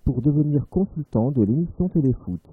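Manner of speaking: measured radio newsreader delivery; news read. Acted. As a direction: read it like a serious bulletin. Reads a parody news bulletin. (lecture de journal radio)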